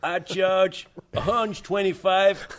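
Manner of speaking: put-on New York accent. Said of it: "do it in an American New York, New York accent".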